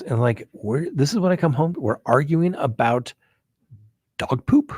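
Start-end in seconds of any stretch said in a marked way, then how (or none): 4.2-4.7 dog poop jumps way higher in disbelief; incredulous squeak. Real, not acted. Complaining about arguing over dog poop, incredulous squeak. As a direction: squeak it out in mock outrage. Mocking the trivial argument.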